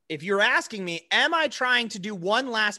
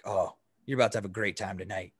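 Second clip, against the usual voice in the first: put-on drunk boss; 10 semitones lower, 6 dB quieter, faster than usual. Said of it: "He's like".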